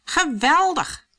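high, loud, drawn-out delight; delighted exclamation. A narrator's reading. Bertje sees a house to sing at, delighted. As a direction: stretch the word out with glee.

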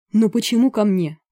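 indignant protest. A narrator's reading. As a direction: push back in dismay. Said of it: "протестовал карлик".

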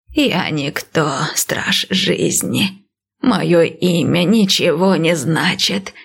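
slow, lightly voiced old priestess; calm old seer, unhurried; old woman voice.

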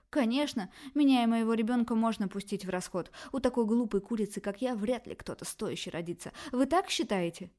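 mock herself to wound them; sarcastic hysterics. Daughter throws bitter sarcasm at her parents, hysterical.

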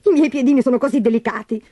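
high, simpering self-admiration; sighing stepsister. A narrator's reading. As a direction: coo vainly like a spoilt sister. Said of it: "sospirò Berta".

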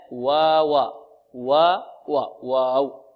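slow واوا with plain open aa; evenly opened vowel in واوا; medium-open waw. Shown as a demonstration. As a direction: correct واوا, drawn out and light. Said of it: "مفتوحة فتح متوسط".

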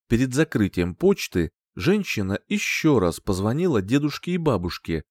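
usual speaking voice

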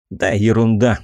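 brushing it off with "ерунда" stressed; dismissive. Acted. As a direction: wave it away lightly. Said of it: "попытался отмахнуться я".

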